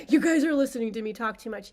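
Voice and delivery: tearful, laughing through tears; real crying. Real, not acted. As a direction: she breaks into tears at the irony of it. Overcome by her own story.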